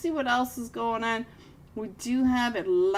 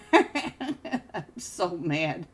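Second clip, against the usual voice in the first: laughing; 2 semitones lower, much slower than usual. Real, not acted. Laughing at own predicament.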